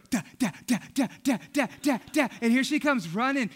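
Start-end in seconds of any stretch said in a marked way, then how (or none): 0.1-2.3 imitating a toddler's short babbled calls; lightly voiced excited toddler; Ruth. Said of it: "I hear little Ruth go".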